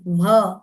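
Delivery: व drawn out as "wh", H audible; blended WH sound. Shown as a demonstration. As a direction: blend W and H together on व, stressed. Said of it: "मिलकर".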